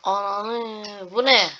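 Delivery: exasperated rising yell; frustrated outburst. Real, not acted. Gamer cursing at the glitching game. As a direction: snap at the screen in disbelief.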